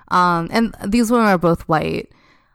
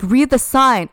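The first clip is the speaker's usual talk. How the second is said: mock scream; 4 semitones higher, 4 dB louder than usual. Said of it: "she just keeps screaming".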